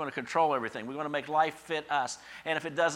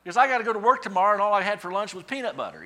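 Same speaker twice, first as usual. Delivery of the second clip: mock despair, much higher and louder; whiny envy; 9 semitones higher, 10 dB louder than usual. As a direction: moan like you're missing everything. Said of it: "And I'm like".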